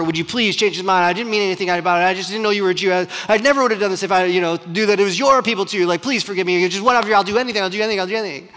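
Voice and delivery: fast, rambling mock pleading; insistent begging. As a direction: babble excuses and promises to save your life. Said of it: "This insisting, this chasing Esther".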